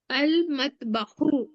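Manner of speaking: slow "अल मतबखु" ending on u, no n; al with one pesh. Shown as a demonstration. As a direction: stretch out "अल मतबखु", short u at the end. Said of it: "अल लगा है इसलिए क्या हो गया वो?". (धीरे "अल मतबखु", आख़िर में सिर्फ़ उ)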